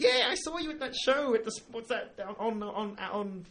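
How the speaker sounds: put-on drunk bogan voice. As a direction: heckle like a drunk woman on the street. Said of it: "And she went".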